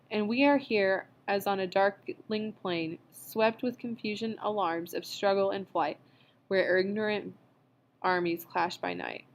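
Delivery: measured, solemn recitation; poem reading. A narrator's reading.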